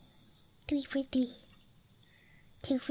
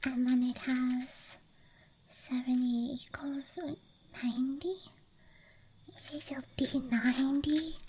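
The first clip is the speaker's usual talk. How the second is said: ASMR whisper. Real, not acted. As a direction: whisper close to the mic. ASMR dice show-and-tell.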